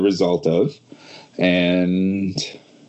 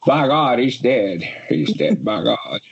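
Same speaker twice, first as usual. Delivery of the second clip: JR commentary impression. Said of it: "In J R's words".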